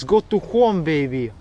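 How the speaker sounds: lightly Russian-accented reading; a hint of a Russian accent on the sign. Shown as a demonstration. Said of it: "read this in a Russian accent".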